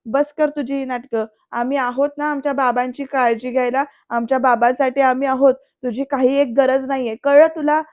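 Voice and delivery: mild mock yell, loudest on the last words; retold angry yelling. Son tells Anandi she isn't needed, retold yelling. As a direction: scold hard in a storyteller's voice. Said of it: "असं म्हणत जोरात ओरडतोय".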